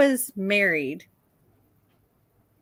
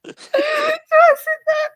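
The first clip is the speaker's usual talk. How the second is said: laughing while reading; 4 dB louder than usual. Real, not acted. Reading funny texts, cracking up.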